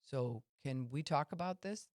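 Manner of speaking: reach out kindly to a friend you value; gentle caring approach. Retold or imitated. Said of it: "That's carefront".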